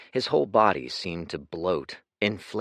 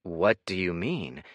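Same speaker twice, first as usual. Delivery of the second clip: evenly. Acted. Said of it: "he said evenly".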